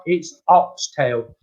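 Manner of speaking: slow, emphatic reassurance, lightly acted; retold patient insistence. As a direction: spell it out slowly to a doubter.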